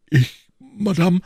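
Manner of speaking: slow, high, loud self-importance; puffed-up exclamation. A narrator's reading. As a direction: chest out, mock-modest surprise. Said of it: "rief Porthos, sich in die Brust werfend". (aufgeblasen ausgerufen, langsam und hoch)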